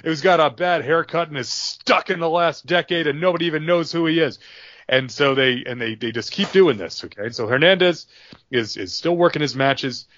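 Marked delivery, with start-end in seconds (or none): 0.0-4.4 JBL taunting Gino. Retold or imitated. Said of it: "And it's like".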